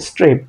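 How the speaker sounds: "স্ট্রেপ" blended as one word; said together. Shown as a demonstration. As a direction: join the opening s straight onto the rest of "স্ট্রেপ". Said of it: "একসাথে করলে".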